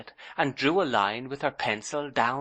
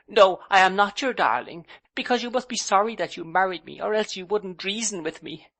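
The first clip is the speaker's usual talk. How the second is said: put-on high, loud, hurt girlish protest; wounded bride refusing her husband's words; hurt young wife; 9 semitones higher, 4 dB louder than usual. A narrator's reading. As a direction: pout and push him away.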